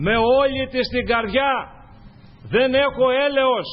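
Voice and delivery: loud, high pleading cry to the Lord; preacher voicing a desperate woman's plea, loud and high.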